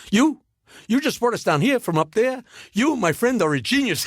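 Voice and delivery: Jackie Mason impression. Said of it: "Mason turns to the elevator operator and says".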